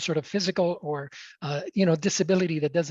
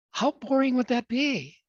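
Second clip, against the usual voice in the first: higher, punchier repeat of boring; emphatic repeat; 5 semitones higher than usual. Shown as a demonstration. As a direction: hit boring higher the second time.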